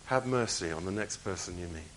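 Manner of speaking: soft, slow sincere phrase. Shown as a demonstration. Preacher gently giving the congregation a phrase, soft and sincere. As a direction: have mercy said slowly and softly. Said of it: "I'll give you a little phrase".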